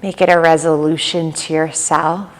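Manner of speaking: calm yoga nidra guide, long pauses between phrases; even, unhurried delivery with little pitch movement; guided meditation. Real, not acted. Leads yoga nidra practice.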